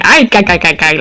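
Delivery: lightly mimicked cartoon sailor chatter; Popeye. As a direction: rattle it off like a cartoon sailor's laugh. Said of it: "Popeye every single time I read that name".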